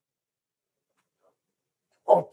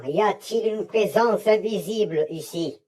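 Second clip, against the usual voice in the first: higher raised calling voice; 7 semitones higher than usual. Acted. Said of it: "Je vais lever la voix".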